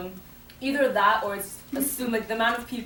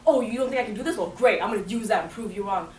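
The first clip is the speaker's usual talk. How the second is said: louder, punchy mock defiance; defiant comeback; 3 semitones higher, 6 dB louder than usual. Imagined retort to people who doubt you, defiant. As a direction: fire back at the doubters, mildly hammed-up.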